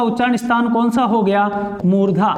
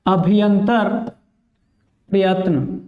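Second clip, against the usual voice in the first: slow dictation; 3 semitones lower, slower than usual. Shown as a demonstration. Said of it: "कौन सा प्रयत्न?".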